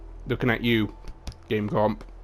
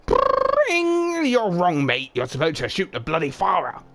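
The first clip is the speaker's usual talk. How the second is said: much higher, louder manic buzzer yell; Junkrat scream; 8 semitones higher, 3 dB louder than usual. Acted. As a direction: scream it like a gleeful maniac. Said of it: "Junkrat screamed".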